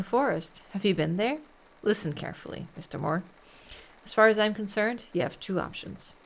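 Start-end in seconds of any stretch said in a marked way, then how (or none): 1.8-3.2 menacing whisper. Acted. Inspector threatens the suspect. 5.1-6.2 menacing whisper. Acted. Inspector threatens the suspect.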